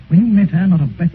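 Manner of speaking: indignant outburst at a friend; angry reproach. Acted. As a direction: hit him with the accusation. Painter angrily reproaching Dorian.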